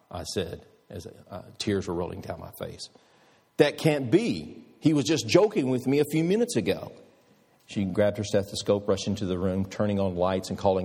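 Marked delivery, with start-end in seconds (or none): 3.6-6.9 shocked disbelief. Retold or imitated. Nurse shocked at the death.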